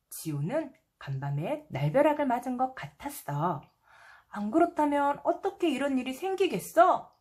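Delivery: put-on gentle storybook voice for little kids; reading to a toddler. A narrator's reading. Reads picture book to children. (아이에게 동화 읽어주는 목소리)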